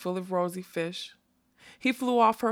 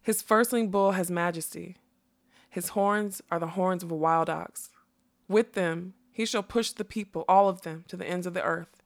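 measured, declaimed verse; reciting. A narrator's reading. Butterfly describing the Red Bull, reciting. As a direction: recite it like scripture. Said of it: "shook his head wildly and recited".

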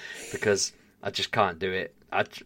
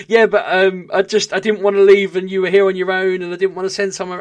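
high, loud, panicky over-explaining; a homeowner over-explaining to the builders, high and loud; flustered rambling; 10 semitones higher, 10 dB louder than usual. Retold or imitated. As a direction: babble the excuse, pitched up and loud. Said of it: "I'm like".

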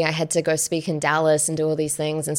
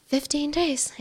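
retold disbelief; 10 semitones higher, 4 dB quieter, slower than usual. Startled echo of the voice's order.

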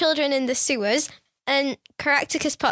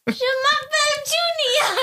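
put-on high, laughing French accent; exaggerated French accent impression; mock French accent; 12 semitones higher than usual. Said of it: "No, you do like this".

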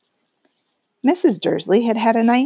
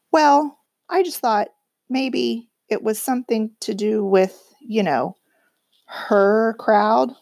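timid half-whisper; 3 semitones higher than usual. Acted. Timid husband hinting.

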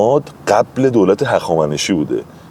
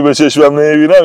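excited retelling; 8 semitones higher, 5 dB louder than usual. Retold or imitated.

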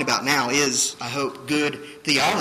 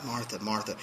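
soft, low, gentle name-calling; quiet; 4 semitones lower, 9 dB quieter than usual. Retold or imitated. Preacher voicing the usual reading of Jesus to Martha, quiet. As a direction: say it softly and lower, almost silent. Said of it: "a silent, kind of a quiet".

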